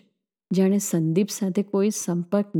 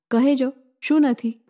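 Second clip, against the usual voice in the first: higher, louder, શું hit hard with a falling tune; stressed challenge; 6 semitones higher, 3 dB louder than usual. A narrator's reading. Daring her friend to name a lack, stressing શું. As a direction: punch શું, then let it fall. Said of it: "એક એક શબ્દ પર ભાર મૂકતી".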